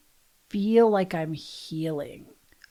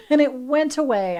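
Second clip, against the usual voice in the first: higher, louder burst of relieved laughter; laughing relief; 5 semitones higher, 4 dB louder than usual. Real, not acted. Telling listeners the fear left, laughing with relief. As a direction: laugh it out, delighted it passed.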